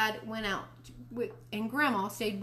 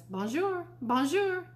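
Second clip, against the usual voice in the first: high-pitched talking mynah; bird voice; 9 semitones higher, slower than usual. A narrator's reading. Mynah bird repeating its greeting all afternoon, bird voice. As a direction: parrot it high like a pet bird. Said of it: "in bird voice".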